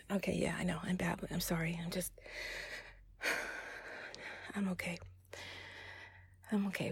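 soft, deflated, with sighs; calm yourself down, quietly apologetic; subdued apology. Acted. Apologising to rescuer, calming down.

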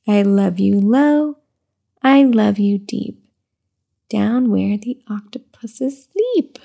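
slow sing-song read-aloud; reading to baby. Acted. Mother reading a rhyming book to her baby, slow sing-song. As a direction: lilt the rhyme gently for the baby.

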